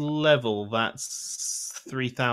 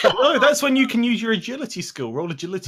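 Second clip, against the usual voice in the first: laughing; 10 semitones higher, 7 dB louder, faster than usual. Real, not acted. Laughing suggestion.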